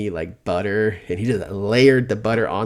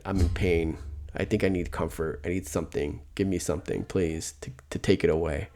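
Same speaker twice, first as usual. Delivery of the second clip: mock pleading; 4 semitones lower, 6 dB quieter than usual. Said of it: "my mindset goes to".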